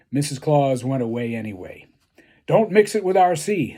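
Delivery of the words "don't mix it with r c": high, loud call from the bedroom. Acted. Santa calling out to his assistant, high and loud. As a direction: call it out across the house. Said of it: "Santa called".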